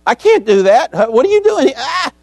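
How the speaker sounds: high, loud imitated shriek; mock scream of fright. Preacher acts the medium seeing Samuel, high mock scream. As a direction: act out the medium's panicked shrieking. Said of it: "she screams".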